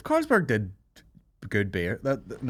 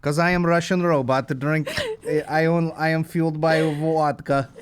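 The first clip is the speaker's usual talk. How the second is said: Russian robot. Pretend. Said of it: "Why is it a robot as well".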